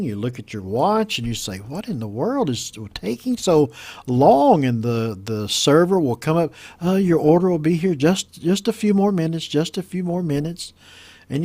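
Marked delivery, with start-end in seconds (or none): 1.6-4.6 mildly exasperated acted complaint; impatient diner. Hungry customer checking watch in restaurant, mildly impatient. 6.8-10.7 higher-pitched, lightly voiced waiter; placating server. Server stalling a waiting customer, lightly acted placating.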